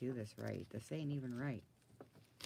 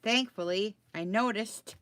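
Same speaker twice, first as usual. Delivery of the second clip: loud relief; 8 semitones higher, 10 dB louder, slower than usual. Real, not acted. Relief after catching mistake.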